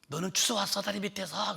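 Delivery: a retold mother snapping at her son; mother's scolding. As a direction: tell the child off sharply. Mother scolding child in story.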